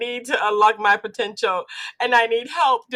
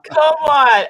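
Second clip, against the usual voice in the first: excited; 2 semitones higher, 8 dB louder, slower than usual. Real, not acted. Host reacts to guest's joke.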